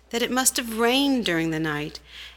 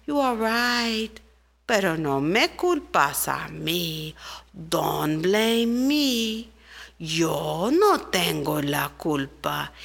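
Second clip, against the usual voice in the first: slow, lower, unhurried voice for the rain; 3 semitones lower, slower than usual. Acted. Rain calmly blaming the cloud, slow deep voice. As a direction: let the rain drawl its excuse.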